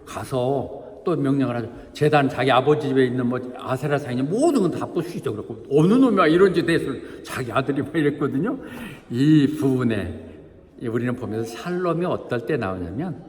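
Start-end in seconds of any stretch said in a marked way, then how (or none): 5.7-7.2 loud, raised-pitch acted demand; mock outrage. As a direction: imitate an angry villager hunting the culprit. Townsmen angry at smashed altar.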